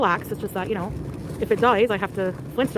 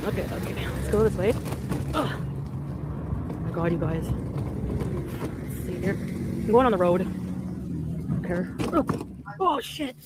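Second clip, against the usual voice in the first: panicked; 3 dB quieter, slower than usual. Real, not acted. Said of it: "I was panicking".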